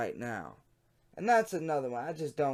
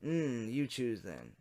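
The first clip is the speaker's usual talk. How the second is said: man's chat voice; 5 dB quieter, slower than usual. Shown as a demonstration. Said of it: "Wrong voice".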